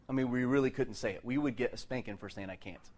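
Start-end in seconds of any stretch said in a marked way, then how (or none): 2.5-2.9 dropped very soft, almost under the breath; hushed forbidden words. Retold or imitated. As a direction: say it as if it's not allowed. Forbidden phrase, dropped very low.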